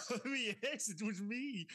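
mock murder-mystery villain, amused; evil voice. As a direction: put on a playful evil reveal voice. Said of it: "they call that the evil voice".

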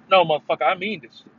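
mean it hard without screaming; angry but controlled. Shown as a demonstration. Showing anger that is still speaking, angry but controlled. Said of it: "that's me speaking while angry".

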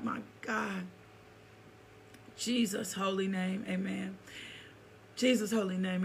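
soft, steady prayer voice, phrases repeated. Real, not acted. Pastor thanking God before the teaching, softly prayerful. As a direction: pray quietly and earnestly to the Father.

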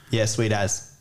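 laid-back Aussie agreement; Australian conversation. Shown as a demonstration. Person two agreeing with a mate, easygoing Aussie slang. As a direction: toss it off in casual Australian. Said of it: "perhaps an Australian conversation".

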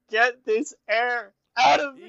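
high, slow, strained mock voice; voice of the stomach. Friend voicing Kyle's stomach, high strained mock plea. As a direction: squeeze it out like a pleading stomach.

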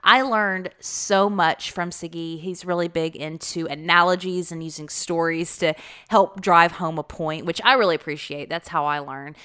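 hoarse from a cold; croaky cold-season voice; frog voice. Real, not acted. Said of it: "Forgive my crazy frog voice".

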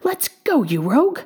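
high opening, dropping into a scold; mock yell. A narrator's reading. Little man to the rabbit down the hole, mock yell. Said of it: "the little man yelled down the hole".

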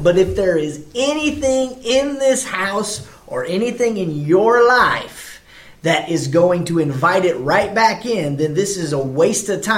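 slow, drawn-out retold warning; blunt warning. Warning people whose houses she prays over, bluntly. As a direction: stretch the condition out, firm and emphatic. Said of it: "I will tell them to their face".

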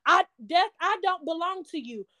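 steady, firm faith declaration; a fervent but unshouted affirmation; spoken declaration. Shown as a demonstration. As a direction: proclaim it like a prayer of defiance. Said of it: "you might have to say that every single day".

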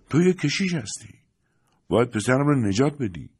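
put-on high, pressing plea from an old mother; desperate old woman. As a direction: clutch at him with your voice. Old woman grabs priest's hand.

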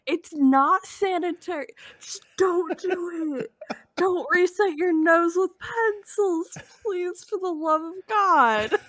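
mock earnest plea. Mock plea about nose pencils.

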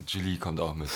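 talking through a mouthful; wolfing down food while talking; mouth full. Real, not acted. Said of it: "man spricht nicht mit vollem Mund".

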